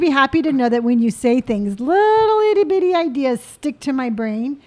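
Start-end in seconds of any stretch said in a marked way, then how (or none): 1.8-3.4 "little" stretched out high; cutesy, lengthened "little itty bitty"; playful tiny voice. Acted. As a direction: draw out "little" on a raised note. Plays up how tiny ideas are.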